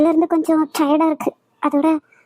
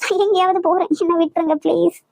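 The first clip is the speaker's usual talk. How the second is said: distressed pleading; 3 semitones higher than usual. Acted. Wife pleads to stop questioning.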